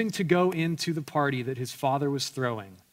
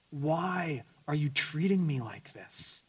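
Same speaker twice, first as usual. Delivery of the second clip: softer, slow wounded question; hurt father; 5 dB quieter, slower than usual. Acted. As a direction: ask it quietly, heartbroken. Father's hurt plea voiced.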